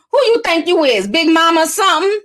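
mock a sassy country accent. Carl clapping back at a commenter, imitated country accent. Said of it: "His country accent is funny".

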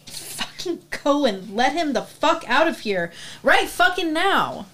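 mild angry demand, rising at the end; angry outburst. Acted. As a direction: build to an indignant outburst. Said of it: "just shouted at a policeman".

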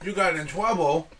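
lightly put-on Asian accent dad; Chinese restaurant accent. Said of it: "Why do you sound like the guy at the Chinese restaurant?".

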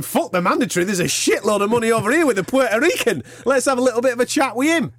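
high, sly promoter impression; scheming promoter voice. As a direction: play the greedy promoter. Imitating Eddie Hearn scheming.

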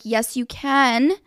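slow, insistent retold retort; drawn-out exasperated assurance. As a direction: insist slowly, patience running out. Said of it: "I was raising my voice".

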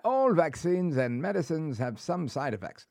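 put-on unconvincing British accent; half-hearted attempt at a British butler; Mister Belvedere. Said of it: "do it like Mister Belvedere".

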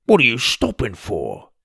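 lightly voiced friend Tim, puzzled. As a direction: ask it as the impatient friend Tim. Tim's voice in story.

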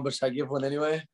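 worn-out, nearly gone voice; voice giving out. Real, not acted. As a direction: talk on a voice that's almost gone. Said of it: "my voice is almost gone".

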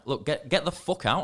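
heated but not shouted demand; losing temper. Retold or imitated. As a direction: re-enact losing your rag a little. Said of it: "I lost my rag a little".

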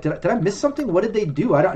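lightly voiced confused onlooker; confused bystander. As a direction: ask like you missed the trick. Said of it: "others are like".

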